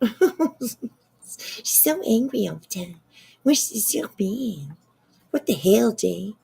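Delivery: slow, laughing mock of the complaint. Real, not acted. Streamer laughs while mocking BJ's complaint. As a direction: giggle through the quote, drawn out. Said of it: "that was very comical".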